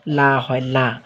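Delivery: thin l and open vowel on লা; light laa. Shown as a demonstration. Teacher stressing the zer rule to students, light open "laa" on লা. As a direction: say লা with a clear open aa, not "law". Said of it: "জের থাকে তাহলে সেটা".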